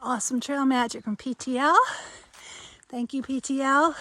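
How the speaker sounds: panting after a climb; breathless from running uphill; out of breath. Real, not acted. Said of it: "I'm a little out of breath".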